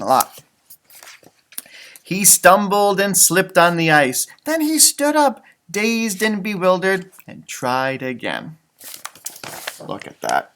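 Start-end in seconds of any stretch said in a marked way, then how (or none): 2.0-8.6 gentle read-aloud storytelling voice; story narration. Acted. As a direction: read it like a bedtime picture book. Reading picture book aloud.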